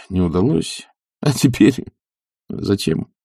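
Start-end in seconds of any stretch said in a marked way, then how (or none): none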